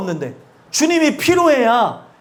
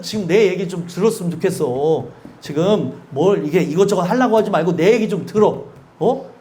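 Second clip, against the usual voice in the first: lightly voiced, a bit lower and tender; a hint of God's gentle plea; 5 semitones lower than usual. God asks his child to sit and listen, gently. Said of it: "이렇게 얘기하는데".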